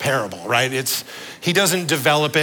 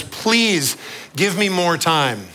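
pleading servant; 4 semitones higher, slower than usual. Acted. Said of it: "pleads with the master".

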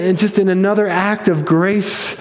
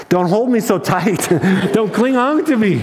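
gentle laughing plea; 5 semitones higher than usual. Acted. Jesus laughs as Mary holds him too tight. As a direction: tease her through a laugh. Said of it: "with laughter in his voice".

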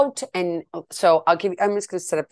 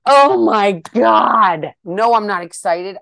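mock excitement; 3 semitones higher, 10 dB louder, slower than usual. Sarcastic reaction to concert surprise.

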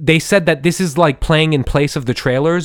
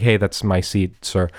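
softer, lower polite request; 6 semitones lower, 4 dB quieter than usual. Retold or imitated. Telling an old man it's his seat, polite. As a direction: keep it low-key and courteous. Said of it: "politely told him".

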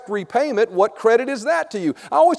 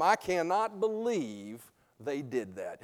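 mock shocked gossip; 6 semitones lower, 13 dB quieter, slower than usual. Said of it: "had that come out of your mouth".

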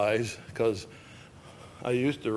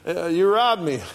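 God accusing; 6 semitones higher, 6 dB louder than usual. Acted. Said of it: "When God says".

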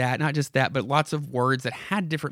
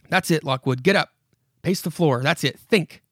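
put-on a creaky old house coaxing the visitor; spooky house voice; 3 semitones higher, 4 dB louder than usual. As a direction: lure him in like a haunted house. House urges him.

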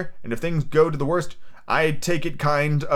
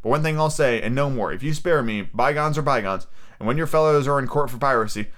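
put-on mildly excited, higher-pitched boy's speech; a touch of defiant excitement; excited defiance; 3 semitones higher than usual. Captive Jim confesses all to the pirates, mildly excited defiance. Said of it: "I was quite excited".

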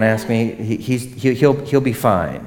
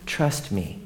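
soft low "Trust me"; 3 semitones lower, 9 dB quieter than usual. Acted. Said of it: "repeated with different delivery".

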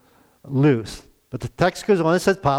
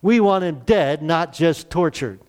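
raised, higher crowd cry, part hammed-up; retold mob shouting; 4 semitones higher than usual. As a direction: call for his death like an angry mob. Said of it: "temple guards began shouting".

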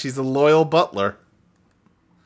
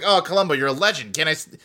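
put-on shitty British accent; faster than usual. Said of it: "me doing shitty British accents".

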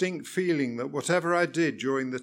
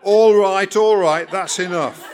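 much louder, cutting him off; exasperated; 5 semitones higher, 11 dB louder than usual. A narrator's reading. Examiner cutting off the rambling learner, loud. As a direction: shout him down, fed up.

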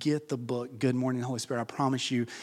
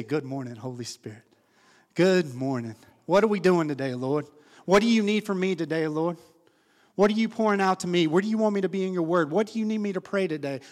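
higher, louder eager prayer to the Lord; eager morning prayer; 6 semitones higher, 5 dB louder than usual. Pretend. Believer waking up and asking the Lord, eager prayer. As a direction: greet God like a friend each morning.

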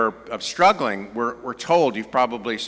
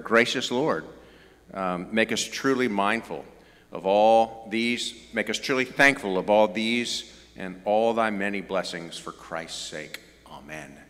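reverent grace. Shown as a demonstration. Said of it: "maybe you've said that yourself".

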